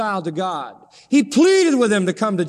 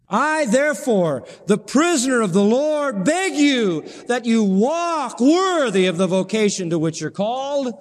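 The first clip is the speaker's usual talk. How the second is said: pleading; 3 semitones higher than usual. Acted. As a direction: beg the listeners to walk worthy. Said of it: "you hear him begging all over again".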